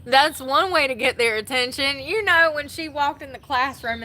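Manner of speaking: loud, high burst of delight; almost shouting with glee; excited. Real, not acted. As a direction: blurt it out, thrilled and loud. Excited about the teacher's stunt.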